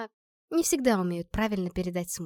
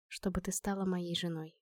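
much softer, almost whispered confession; 3 semitones lower, 10 dB quieter than usual. Acted. Alex whispering his wish to Olya, soft and close. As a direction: breathe it to her softly. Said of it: "прошептал он".

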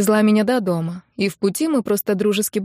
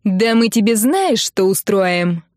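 угроза; 3 dB louder, slower than usual. Acted. Хамка угрожает по телефону.

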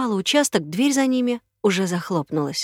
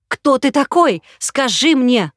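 high, loud frantic yell; woman demanding the truth, frantic; frenzied shout; 5 semitones higher, 8 dB louder, slower than usual. Acted. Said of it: "крикнула Марта иступлённо".

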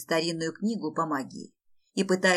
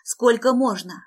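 loud wail; 4 semitones higher, 7 dB louder than usual. Acted. Tonya wailing at coach.

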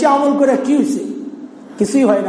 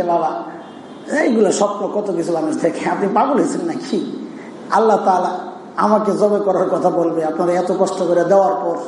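lower-pitched mock son talking back; modern kid arguing; 5 semitones lower than usual. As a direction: lightly voice a child reasoning dad out of it. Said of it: "আমাদের মতো হইলে কি বলতেন". (নিচু স্বরে বাবাকে বোঝানো ছেলের নকল)

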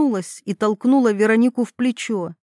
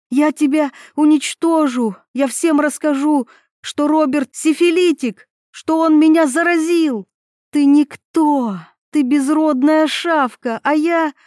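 furious threats; 6 semitones higher, 4 dB louder than usual. Acted.

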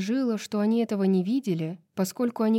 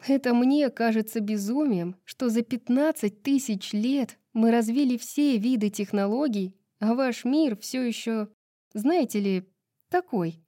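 higher-pitched lively heroine's voice; lightly animated young-woman dialogue; chatty heroine; 4 semitones higher than usual. Acted. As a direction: explain it brightly in a higher voice.

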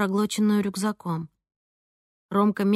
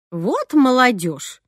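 slow, louder sighing grumble; old cleaner's sigh; 3 semitones higher, 4 dB louder, much slower than usual. A narrator's reading. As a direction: shake your head at kids. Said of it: "вздохнула ей вслед техничка". (вздыхая, ворчливо)

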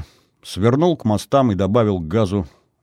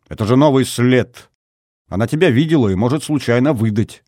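higher, somewhat louder scolding; cross; 4 semitones higher, 4 dB louder than usual. A narrator's reading. Girl scolds him for leaving a new trace, cross. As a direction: reproach him, mildly angry. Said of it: "сердито нахмурилась девушка".

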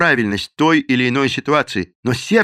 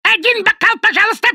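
very high, louder squawking bird voice; shrill parrot cry; 5 dB louder than usual. A narrator's reading. Parrot repeating its bar order, shrill louder squawk. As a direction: screech the order like a barroom parrot. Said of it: "Это с тех пор, когда он жил в баре".

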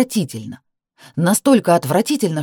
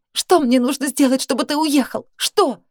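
high desperate cry; 8 semitones higher than usual. Acted. Desperate demand.

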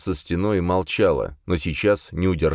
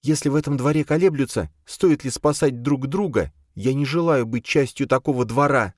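calm but unbending; calm and firm; 9 semitones higher than usual. Acted. Charna to Khranka, calm and firm. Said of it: "спокойно и твёрдо".

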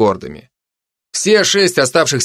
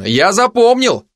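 higher, drawn-out mild call; mild called shout; 7 semitones higher, slower than usual. A narrator's reading. Narrator calls a reminder after Madan, slow mild shout. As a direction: call after a departing friend, only lightly raised. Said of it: "крикнул я в спину Мадана".

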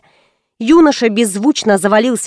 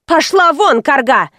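higher, mild yell; mother's yell; 4 semitones higher than usual. Acted. Mother yells at old woman, mild yell. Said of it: "заорала мать".

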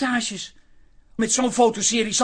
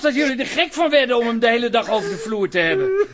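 laughing through tears; 3 semitones higher, 4 dB louder than usual. Acted. Laughing and crying together.

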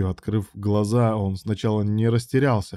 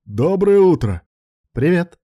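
higher and louder call across the pool; cheerful call across the yard; 8 semitones higher, 7 dB louder, slower than usual. A narrator's reading. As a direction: hail someone from a distance. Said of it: "окликнул его".

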